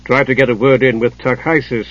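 sniffy. Acted. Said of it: "Hidjukel sniffed".

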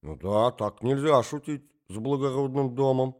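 lightly voiced old prince echoing mindlessly; absent echo. Old prince echoes Marya Alexandrovna, absent-minded. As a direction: repeat it vaguely, not thinking. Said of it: "поддакнул князь бессознательно".

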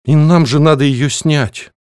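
slow, high, unsure words; a confused student hesitating before the rector; bewildered. A narrator's reading. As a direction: say it lost and confused. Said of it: "растерянно произнесла я".

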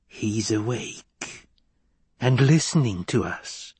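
put-on slow hushed old crone; a creaky witch, half whispered; breathless old person. Crone voice continues.

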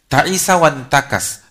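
loud, slow Arabic quotation; forceful quotation of the Prophet; declaimed hadith. Real, not acted. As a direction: proclaim the Prophet's words. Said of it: "Makanya Nabi mengatakan".

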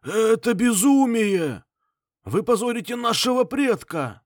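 put-on high, loud, drawn-out old man's cry; old man's shout. A narrator's reading. Old patriarch shouting to stop the bloodshed. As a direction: cry out to halt the fight. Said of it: "крикнул старик".

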